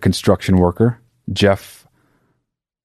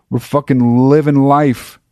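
raised pitch, moderate excitement; mildly elated; 4 semitones higher than usual. Retold or imitated. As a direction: tell it riding high on triumph. Retelling triumph, first take before exaggeration.

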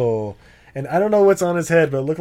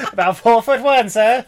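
laughing retelling; 7 semitones higher, 5 dB louder than usual. Retold or imitated. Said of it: "that's right".

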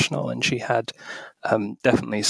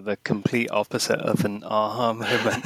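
laughing. Real, not acted. Laughs at the host's question.

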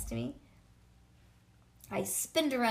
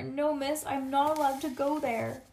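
protesting; 3 semitones higher, 4 dB louder than usual. Acted. Child resists going to the office.

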